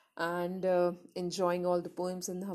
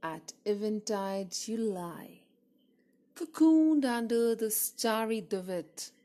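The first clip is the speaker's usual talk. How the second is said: poem recitation. Acted. Poet reading an ode to the moon, measured recitation. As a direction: recite it line by line, letting each phrase settle.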